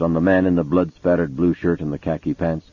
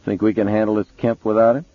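higher, gruff cop voice; gruff police chief voice; 4 semitones higher than usual. Acted. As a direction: play the impatient detective. Mason grins at Townsend.

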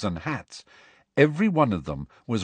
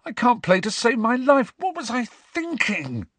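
Ron croaking; 14 semitones higher than usual. A narrator's reading. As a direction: drag out the self-pity. Ron's voice held.

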